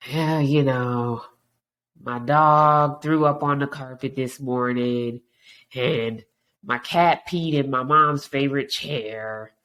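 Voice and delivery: slow, dragging, downbeat complaint; mopey complainer. Retold or imitated. Negative friend answers the greeting, slow and mopey. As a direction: drag every word like nothing ever goes right. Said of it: "constantly negative".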